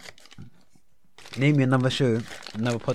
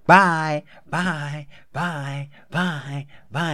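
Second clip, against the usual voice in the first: flirty bye; 6 semitones higher, 8 dB louder, much slower than usual.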